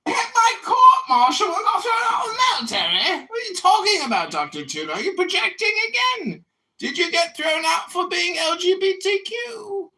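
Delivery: high, fast indignant yelling; fast, high, outraged comeback; incredulous angry shout. Real, not acted. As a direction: throw the accusation back at him, shouting. Incredulous retort in a heated argument.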